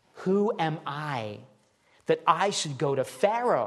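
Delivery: quavering, unsteady, trembling voice. The speaker acts out a man answering god, acting out a shaking voice. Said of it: "answering God with a shaking voice".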